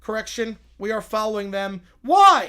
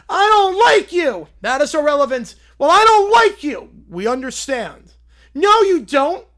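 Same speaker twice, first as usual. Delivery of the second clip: put-on sulky kid whining at the Borg, louder; whining child; 3 semitones higher, 8 dB louder than usual. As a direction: whine it like a cranky kid. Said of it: "They whine a lot".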